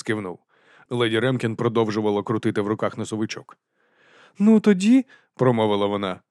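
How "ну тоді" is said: high, hearty aristocratic lady; lady's voice. A narrator's reading. Lady explains dragon stomachs to Vimes. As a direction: lift the voice for the lady.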